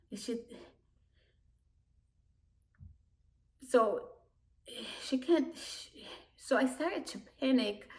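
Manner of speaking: halting, distressed and near tears; choked-up panic. Real, not acted. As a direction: break off and restart as panic rises, with audible breaths. Panics at sister possibly dying.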